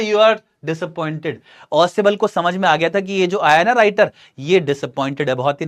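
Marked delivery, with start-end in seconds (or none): 0.0-1.3 slow, slightly subdued aside; over-the-shoulder remark. Acted. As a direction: lightly act a line tossed back over the shoulder. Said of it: "over his shoulder ऐसे बोलता है". (कंधे के ऊपर से धीमे-धीमे कही बात)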